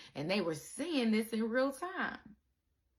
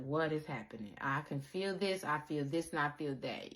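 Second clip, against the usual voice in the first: dazed murmur; 6 semitones lower, 6 dB quieter than usual. Retold or imitated. Dazed acted inner voice.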